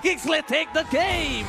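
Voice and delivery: drawn-out game-winning announcement; slow victory call. Real, not acted.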